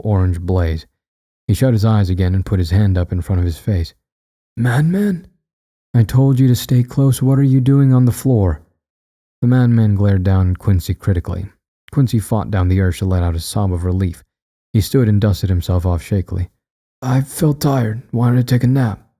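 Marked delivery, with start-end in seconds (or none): 4.6-8.6 higher, stern scolding voice; madman's scolding, pitched up. Acted. Madman scolding Quincy for lying on the floor, stern and higher. 17.0-19.1 higher, younger man's voice making an excuse; slow start, pitched up, covering up shock; feigned casualness. Acted. Quincy excusing himself to the madman, casually covering shock. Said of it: "trying to distract himself from the shock".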